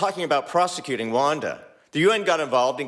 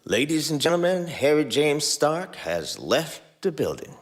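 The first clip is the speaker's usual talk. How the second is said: deadpan. Acted. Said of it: "Sam deadpanned".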